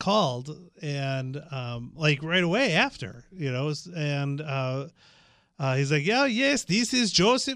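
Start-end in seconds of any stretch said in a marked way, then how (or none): 6.0-7.6 put-on very high, heavy, thick Russian accent. Retelling a man's phone call to verify, in a thick Russian accent. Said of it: "with a very thick Russian accent".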